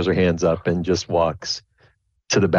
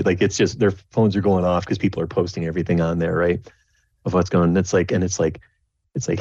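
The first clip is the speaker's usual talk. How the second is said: ordinary talk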